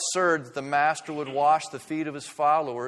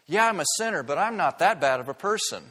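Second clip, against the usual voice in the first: defensive admission; 3 semitones higher, 3 dB louder, faster than usual. Retold or imitated. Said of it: "they always have a problem with".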